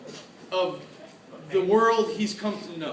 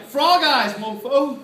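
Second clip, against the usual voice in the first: hyped quote; 5 semitones higher, 6 dB louder, much slower than usual. Retold or imitated. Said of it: "and he's like".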